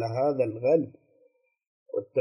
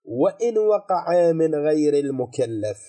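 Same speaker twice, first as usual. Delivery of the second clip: reading the text aloud; slower than usual. Shown as a demonstration. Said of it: "قال".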